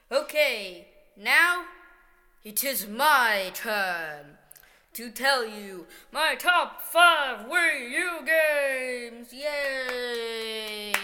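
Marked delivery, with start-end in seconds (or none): 1.2-10.9 excited announcement. Acted. Hosting his own top five reveal.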